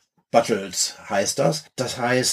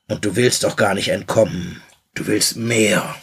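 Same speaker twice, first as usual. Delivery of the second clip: movie trailer voice. Retold or imitated. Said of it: "darf ich zitieren?".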